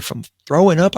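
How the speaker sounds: sharp, high, disbelieving question; incredulous. Retold or imitated. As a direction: toss it back in disbelief. Disbelief at medics' diagnosis.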